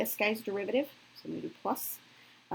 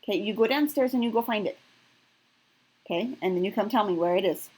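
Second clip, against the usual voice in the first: raised voice; 2 semitones higher, 6 dB louder than usual. Real, not acted. Mom sends child to find milk.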